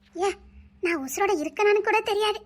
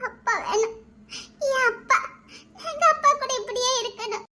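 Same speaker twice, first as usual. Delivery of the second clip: tearful; 3 semitones higher than usual. Acted. Daughter clinging to her father.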